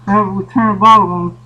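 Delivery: muffled through an air mask; talking through a sealed face mask; firefighter air mask. Real, not acted. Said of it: "I know it's hard to hear me".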